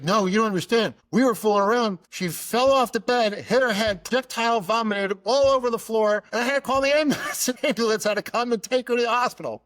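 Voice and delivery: high, loud, escalating panicked account; frantic dad. Retold or imitated. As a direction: act out a flustered father blurting out a disaster. Dad frantically retelling the accident.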